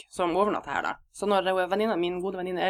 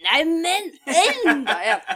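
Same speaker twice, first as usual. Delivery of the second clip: mock yell, higher and louder, slow and laughing; høyt utbrudd; 10 semitones higher, 6 dB louder, much slower than usual. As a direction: repeat the flatmate's loud cry through laughter. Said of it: "han hadde hørt jo den der". (høyt, leende utrop, sakte og mye høyere)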